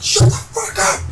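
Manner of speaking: very high imitation of a furious shout; retold screaming. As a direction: snap back in a high mock scream. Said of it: "He's just screaming at me".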